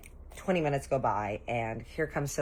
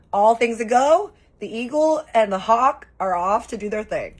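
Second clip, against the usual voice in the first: covert mission signal; 8 semitones higher, 10 dB louder than usual. Acted. Auntie signalling the kids to sneak off, loud mission call.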